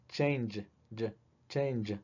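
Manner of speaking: soft "Change" ending on a G-like sound; quiet ending demo. Shown as a demonstration. Teacher showing the real final sound. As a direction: say "Change" quietly, hear the end. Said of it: "con qué sonido termina realmente".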